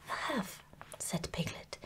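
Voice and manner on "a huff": high, puffed-out little gasp; out of breath. A narrator's reading. Piglet arrives after fleeing, too breathless to speak. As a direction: barely get the word out, panting. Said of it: "breathing so hard that he could hardly speak".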